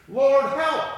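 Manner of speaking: high, forceful shout to God; cry for help. A narrator's reading. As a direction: call out loudly for rescue. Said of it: "they cried in their trouble".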